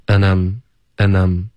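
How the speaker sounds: "enum" slow, with a loose neutral vowel; and I'm reduced to a lazy enum; very relaxed weak form. Shown as a demonstration. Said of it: "非常放松".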